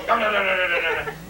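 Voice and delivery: rattling "dun-dun" motor noise; imitated fan timer. Teller shows the fan timer kicking off, imitated rattle.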